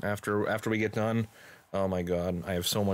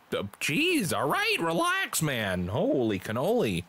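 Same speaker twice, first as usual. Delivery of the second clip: play-by-play; slower than usual. Acted. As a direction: leap up in pitch at the shock, then resume the call. Live wrestling commentary.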